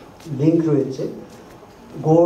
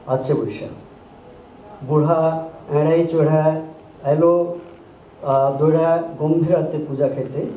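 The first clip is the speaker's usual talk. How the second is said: reciting Shershabadia song lines in rhythm; lightly performed Shershabadia folk verse; Shershabadia Gombhira recitation. Shown as a demonstration. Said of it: "Shiva বন্দনাতে তিনি বলছেন".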